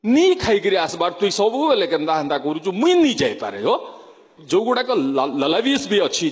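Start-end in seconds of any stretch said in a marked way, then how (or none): 0.1-3.8 Sundargarh dialect. Retold or imitated. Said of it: "ସୁନ୍ଦରଗଡ଼ରେ ଟିକେ ଭାଷା ବଦଳିବ".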